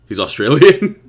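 high, loud rising question; incredulous question. Real, not acted. Host learns Charizard is Australian, incredulous. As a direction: ask in disbelief, lifting high at the end.

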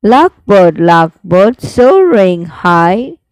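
slow, sing-song recital with rising line ends; poem recitation. Shown as a demonstration. Teacher reciting the lark poem for students, slow sing-song. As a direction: recite it like a class poem, each line lingering.

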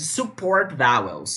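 slow, clear English term; termo em inglês. Shown as a demonstration. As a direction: enunciate each English word slowly. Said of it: "isso aqui é sobre mais pronúncia". (termo inglês dito devagar)

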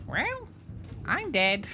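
very high squawking duck voice. Acted. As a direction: hit the duck voice full on. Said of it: "I'm back into it".

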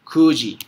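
Kuji said "ku-ji", no y-glide; corrected reading. Shown as a demonstration. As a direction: model Kuji with a plain "ku". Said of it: "pero cambias pronunciación".

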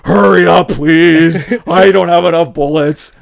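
loud, drawn-out pleading shout; mock desperate Batman. Batman begging Superman to hurry, hammed-up desperate shout. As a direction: plead at the top of a put-on voice.

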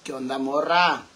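low-pitched attempt at a macho; put-on man's voice. Streamer greeting a girl as a man, put-on male voice. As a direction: drop low and play the man. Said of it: "Vamos a hablar como hombres".

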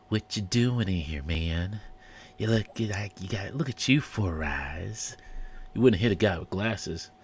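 lightly done Christian Slater drawl; a hint of a sleazy Christian Slater; Christian Slater impression. Guy in the cartoon doing Christian Slater, lightly voiced. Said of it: "let me see if I can do it".

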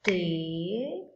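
Tesoura said slowly, mouth opening on each syllable; syllables counted aloud. Shown as a demonstration. Teacher showing kids how to count syllables, slow. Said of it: "Quantas vezes você abriu a boca pra falar tesoura?".

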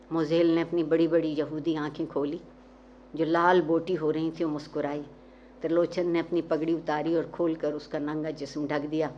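ordinary delivery, nothing marked

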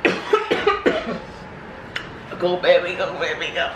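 cheering. Real, not acted. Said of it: "Cheer me on".

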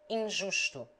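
"Injusto" with a nasal first i. Shown as a demonstration. Tutor demonstrates the nasal Portuguese i. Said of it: "I nasal".

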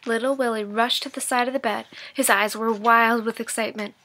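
lively read-aloud storytelling voice; engaged storybook narration for students; story narration. A narrator's reading. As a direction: read it like a teacher sharing a chapter with the class. Teacher reads chapter aloud.

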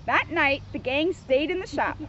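measured, lively storybook narration; children's story reading. A narrator's reading. Officer reads Scooby book to kids, storybook narration. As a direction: read it out clearly for small listeners.

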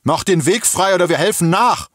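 high, loud threat from the traffic jam; angry shout. A narrator's reading. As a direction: yell impatiently at those blocking the road. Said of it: "Eine Stimme schrie". (wütend und laut geschrien)

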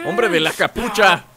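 mock interrogation. Interrogates hooded game character.

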